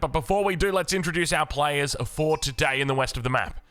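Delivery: hyped esports caster intro; announcer intro. Acted. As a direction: welcome the crowd like a show host.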